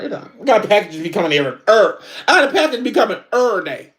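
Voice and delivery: "er day" for every day, clipped and slurred. Shown as a demonstration. Mocking her own "er day" to viewers. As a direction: say "er day" the quick slang way. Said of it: "that ain't how you say it".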